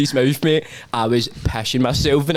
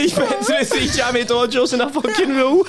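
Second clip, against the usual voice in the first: howling laughter; 12 semitones higher than usual. Real, not acted. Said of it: "I'm howling".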